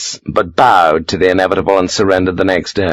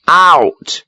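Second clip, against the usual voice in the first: barked order; 9 semitones higher, 3 dB louder than usual. A narrator's reading. Sharp ordering lieutenant away.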